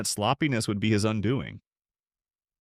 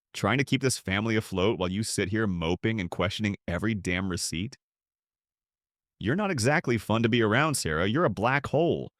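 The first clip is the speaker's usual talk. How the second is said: ugly voice. Acted. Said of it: "his voice turning ugly".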